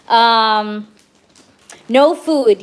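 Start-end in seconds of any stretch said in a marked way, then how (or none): 1.9-2.6 loud, sudden no food; quick louder no food; surprised. Real, not acted. Reading the cards aloud.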